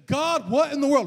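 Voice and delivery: high, loud acted cry to God; retold shout of protest; calling out to God. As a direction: cry out in mock exasperation at heaven. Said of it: "he's calling out God".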